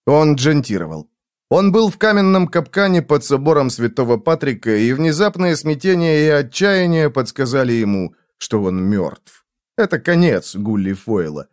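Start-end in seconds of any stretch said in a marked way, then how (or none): none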